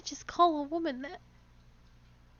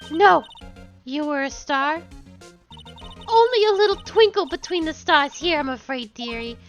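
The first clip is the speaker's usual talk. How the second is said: put-on old woman voice. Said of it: "I have to do an old woman voice".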